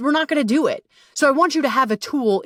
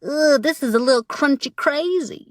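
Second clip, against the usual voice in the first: reluctant groan; 6 semitones higher than usual. Retold or imitated. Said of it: "I can feel the resistance of, like".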